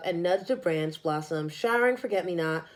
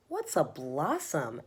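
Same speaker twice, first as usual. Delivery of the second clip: soft, slow little question; small wondering voice; 5 semitones lower, 5 dB quieter, slower than usual. Acted. Sleepy little elephant asks mama, softly and slowly. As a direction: ask it quietly like a sleepy calf.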